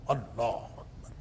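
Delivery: awed murmur. Real, not acted. Awe at the divine voice.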